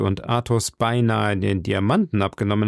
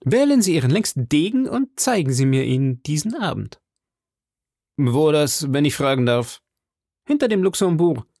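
higher, heated challenge; calling out; 5 semitones higher than usual. Acted. D'Artagnan calls out to the Englishman, higher heated challenge. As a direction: fling the words at him.

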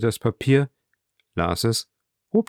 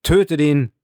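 loud, high roaring crowd; 5 semitones higher, 5 dB louder than usual. Acted. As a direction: roar it like twenty thousand voices. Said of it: "zwanzigtausend Stimmen riefen wie mit einem Schrei". (laut und hoch gebrüllt wie eine Menge)

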